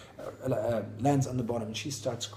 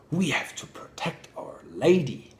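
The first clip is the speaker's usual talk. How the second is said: said out loud; 3 semitones higher, 5 dB louder than usual. Retold or imitated. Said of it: "they said it out loud".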